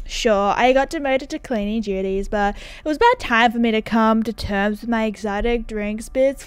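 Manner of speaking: lightly voiced groovy dude; easygoing character, drawling out the ends; laid-back game dude. Game character greeting Cassandra, lightly hammed-up dude.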